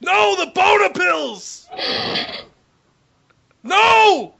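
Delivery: put-on high, slow furious old man shout; grumpy old man. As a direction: rage for the pills like a cranky old man. Old man yelling for pills.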